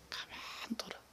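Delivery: a breath-only whisper of the master's words; whispered command. Retold or imitated. Preacher voicing the master to servants, whispered. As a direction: hush it like a secret. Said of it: "주인 이르되".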